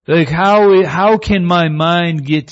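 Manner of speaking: sudden high incredulous how. Real, not acted. Preacher to congregation, a burst of disbelief. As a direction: exclaim it in disbelief.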